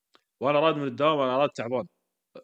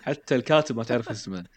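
teasing laugh; 3 dB louder than usual. Real, not acted. Teasing friend about forgetting names.

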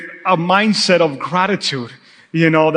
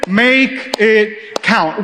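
slow call and response; 2 semitones higher, much slower than usual. Real, not acted. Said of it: "Can you say that with me this morning?".

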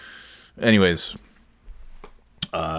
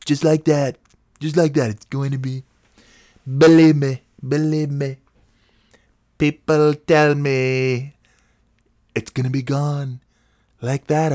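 higher put-on weatherman voice; Mike Wankham imitation; 6 semitones higher than usual. Mimicking the TV weatherman, higher put-on voice. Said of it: "that's my Mike Wankham, uh, imitation".

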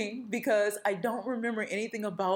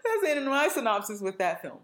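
laughing; 3 dB louder than usual. Real, not acted. Sheepish ending to her synopsis.

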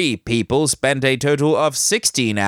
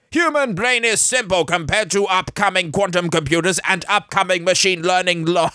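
hurried read; 6 semitones higher, faster than usual. Acted. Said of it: "I'm sorry, C S B".

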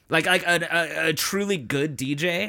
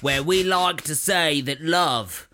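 slow drawling toast; mock DJ speech. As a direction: deliver a corny wedding speech slowly. Parodying the DJ's speech.

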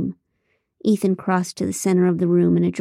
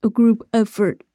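mimicking; 3 semitones higher, 4 dB louder than usual. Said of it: "Ethan mimicked me".

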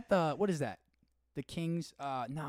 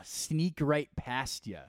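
very drawn-out Michigan twang; Michigan accent; 2 semitones higher, much slower than usual. Acted. Echoing the cohost's tweet, slow Michigan accent. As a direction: savor each Michigan vowel slowly. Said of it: "Michigan accent".

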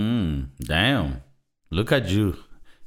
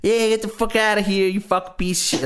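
high, cartoonish mean uncle; 8 semitones higher than usual. Describing the smoking uncle, cartoonish mock bark. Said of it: "a little cartoonish".

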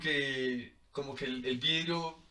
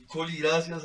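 crying thanks; 2 semitones higher, 5 dB louder than usual. Retold or imitated. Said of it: "así chillaba".

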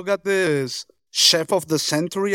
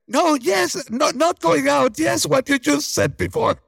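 flustered nervous stammer; 9 semitones higher than usual. Retold or imitated. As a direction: scramble to take it back in a panic. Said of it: "he was so nervous".

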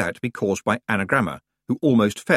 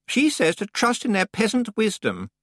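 put-on whiny young witch; 13 semitones higher than usual. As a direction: whine like a spoiled out-of-depth girl. Anagramma voice.

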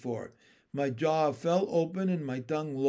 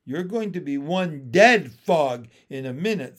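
threatening turtle; 7 dB louder than usual. Acted.

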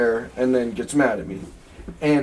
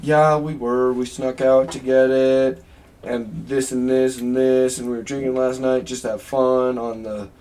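imitated honest confession. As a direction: reel it off in a monotone, owning up. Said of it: "you were super honest about it".

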